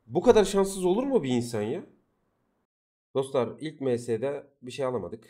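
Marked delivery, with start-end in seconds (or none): 0.1-1.9 higher, louder disbelieving complaint; a real groan of frustration at the game; exasperated cry. Real, not acted. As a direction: throw up your hands at your bad luck. Streamer despairs at failed upgrade.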